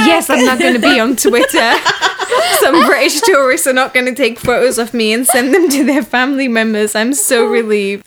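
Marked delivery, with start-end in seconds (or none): 0.1-6.9 laughing relief. Retold or imitated. Retold relief after getting free.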